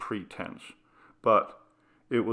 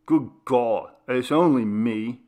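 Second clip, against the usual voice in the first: irritable father; 4 dB louder than usual. Acted. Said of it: "my father said irritably".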